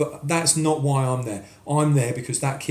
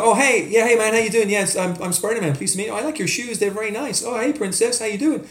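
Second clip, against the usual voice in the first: put-on cheery American accent; 8 semitones higher than usual. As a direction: play the friendly American Spider-Man for the kids. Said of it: "if I talk like this".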